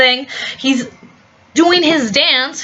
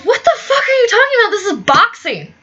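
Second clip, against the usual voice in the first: incredulous retort; 5 semitones higher than usual. Retold or imitated. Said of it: "the father goes".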